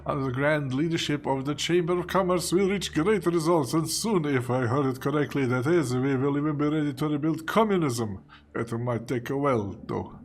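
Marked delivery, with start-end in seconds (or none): 0.1-8.2 proud British official, slightly raised; lightly British bureaucrat boasting; hint of British pomp; British accent. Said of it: "I made this guy British".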